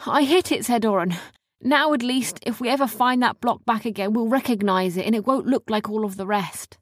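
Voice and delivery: proud of his throw; lightly voiced proud boy; Orrin's voice. Orrin's character voice.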